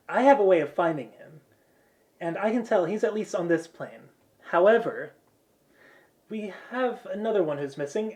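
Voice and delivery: lightly acted briefing, pitched a little up; lightly voiced mission leader. Blonde girl explaining her tracking charm, lightly voiced leader.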